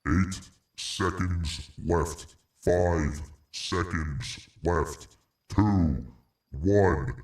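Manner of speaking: drawn-out, very slow countdown. Real, not acted. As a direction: stretch each second out.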